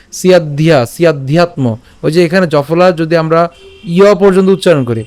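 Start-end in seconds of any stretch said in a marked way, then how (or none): 0.1-1.8 "সিয়াদ্ধিয়া", then "সিয়াধ্যাত্ম", joined up; pronunciation demo. Shown as a demonstration. Teacher asks learners to note "সিয়াধ্যাত্ম", joined pronunciation. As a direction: link dh and ya in "সিয়াধ্যাত্ম". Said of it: "আবার খেয়াল করি".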